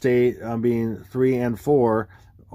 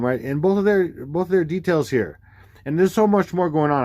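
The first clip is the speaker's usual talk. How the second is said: ordinary talk, nothing marked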